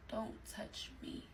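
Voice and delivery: very soft, slow, whispered warning; barely audible retold rebuff; hushed rebuff. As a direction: act out whispering over your shoulder in bed. Retold bedtime rebuff, turned away.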